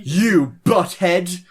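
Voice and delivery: very slow drawn-out insult. Real, not acted. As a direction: stretch every word.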